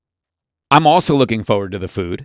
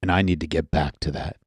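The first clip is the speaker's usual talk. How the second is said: soothing DJ voice; 4 semitones lower, 5 dB quieter than usual. Shown as a demonstration. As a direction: ease into a calm late-night DJ tone. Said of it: "I have a soothing D J voice going on".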